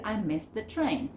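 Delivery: MISSED said like "miss"; MISSED THE linked with no T sound; connected MISSED THE TRAIN, silent past ending; T dropped in MISSED. Shown as a demonstration. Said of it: "También voy a sacar la T".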